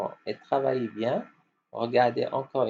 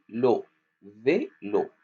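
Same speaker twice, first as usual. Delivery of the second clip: slow model; slower than usual. Shown as a demonstration. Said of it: "On répète".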